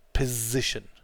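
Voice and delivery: position with a lengthened buzzing z; Position, leaning on the voiced z in the middle. Shown as a demonstration. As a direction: model Position as piz plus ition. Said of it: "it's a Z sound at the end".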